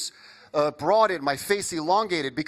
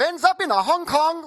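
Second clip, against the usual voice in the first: higher, louder mock Hong Kong accent; slipping into Asian accent; 9 semitones higher, 4 dB louder than usual. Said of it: "starts off a wee bit Scottish".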